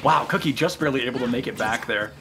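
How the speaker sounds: low, hushed wildlife narrator; nature documentary. Pretend. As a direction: narrate like a nature film host. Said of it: "commentating this like a documentary".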